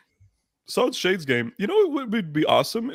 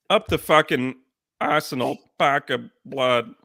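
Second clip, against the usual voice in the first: mock Portuguese. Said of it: "That's how Portuguese people sound to me".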